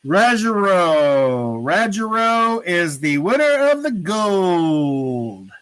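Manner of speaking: slow, stretched-out announcer call; winner announcement. Real, not acted. Host revealing who won the gold, drawn-out announcer call. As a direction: draw out each name and the final word.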